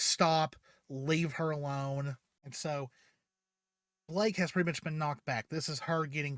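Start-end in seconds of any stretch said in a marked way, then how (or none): 0.0-2.2 retold shout. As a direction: yell at him to stop. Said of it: "And she's like".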